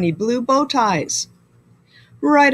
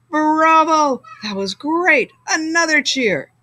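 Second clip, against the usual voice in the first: cheering crowd; 6 semitones higher than usual. Acted.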